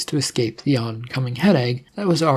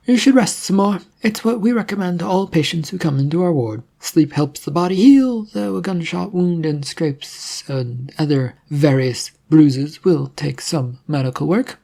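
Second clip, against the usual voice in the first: higher, bright-voiced nurse, pleased; a cheerful nurse who takes charge; brisk nurse; 4 semitones higher than usual. Nurse greeting the waking patient, higher cheerful voice.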